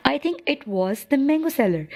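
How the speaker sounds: put-on hushed, breathless whisper of a child; soft unvoiced whisper. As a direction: whisper it like a secret to mum. Girl telling mother in dialogue.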